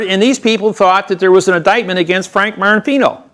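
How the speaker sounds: heated retort. Retold or imitated. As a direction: fire back at the DA, pitch up high. Arguing back against the DA.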